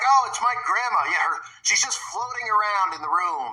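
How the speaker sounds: mock naive believer. Commentator mimics people who think spirits are grandma, mock cheer. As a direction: play a gullible mourner, sarcastically. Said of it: "They're like".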